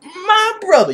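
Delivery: loud, drawn-out, high hammy wail; mock villain. Unalaq jumps in on his brother, hammy loud high wail. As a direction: ham up an outraged, wailing brother act. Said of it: "he's like".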